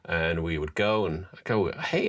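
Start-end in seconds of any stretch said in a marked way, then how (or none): 1.7-2.1 a bright, much higher "Hey" tossed out like a salesman's greeting; breezy salesman hello; chirpy hello. Retold or imitated. Cheery shop greeting, retold.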